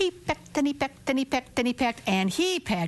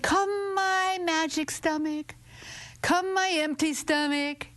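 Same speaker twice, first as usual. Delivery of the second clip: magic summons; 5 semitones higher, slower than usual. Acted. Rooster summons magic stomach.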